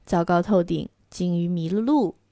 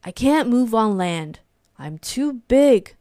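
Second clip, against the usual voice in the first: moaning. Acted. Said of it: "moaned the whale".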